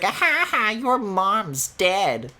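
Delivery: high, very slow, gloating cartoon jeer; hammed-up cartoon troll jeer; smug mock taunt. Mocking an internet arguer.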